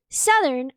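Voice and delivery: "Southern" slow and deliberate; contrasted pronunciation. Shown as a demonstration. Showing the friend the difference, "Southern" said deliberately. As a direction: set "Southern" apart carefully. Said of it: "as opposed to".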